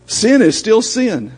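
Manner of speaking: slow, weighty stress on each word; firm emphasis. Real, not acted. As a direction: drive home that sin is still sin. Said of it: "preacher hammers the point".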